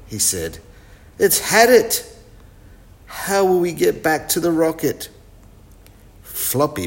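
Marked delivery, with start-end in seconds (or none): 1.2-5.1 worried. Acted. Chip sees the broken buggy.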